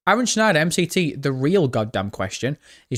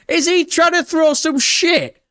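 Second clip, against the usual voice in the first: amused disbelief; 14 semitones higher, 4 dB louder, slower than usual. Real, not acted. Streamer reacts to chat insult.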